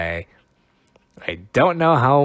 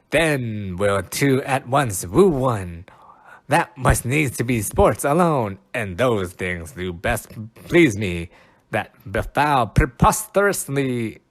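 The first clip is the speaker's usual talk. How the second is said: dramatic Shakespeare reading; slower than usual. Acted. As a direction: proclaim it like a stage actor. Reading Puck's lines aloud.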